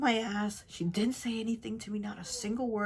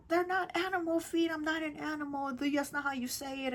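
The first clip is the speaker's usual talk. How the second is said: put-on high, indignant snapping at the child; mock angry snap; 8 semitones higher than usual. Grandma scolding the girl over the word, high indignant snap. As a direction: snap back like an offended grandmother. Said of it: "she just snapped".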